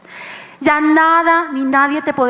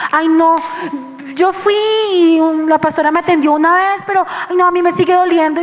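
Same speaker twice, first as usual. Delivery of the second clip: whiny hurt churchgoer; 3 semitones higher, faster than usual. Retold or imitated. Preacher mocks a congregant who still hurts, lightly whining. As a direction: imitate a wounded member grumbling fast.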